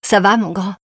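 put-on kindly greeting to a child; friendly, affectionate question; gentle. A narrator's reading. Woman ruffling a boy's hair, gentle. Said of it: "lui demanda-t-elle gentiment".

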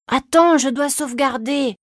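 put-on high-pitched child's voice; protesting little boy. A narrator's reading. Boy to his hurrying mother, whiny protest. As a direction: stall like a kid glued to a game.

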